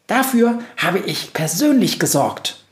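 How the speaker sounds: high proud mouse voice. A narrator's reading. Mouse boasting to the witch, high and proud. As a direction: boast like a tiny reporter. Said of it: "sagt die Reportermaus stolz".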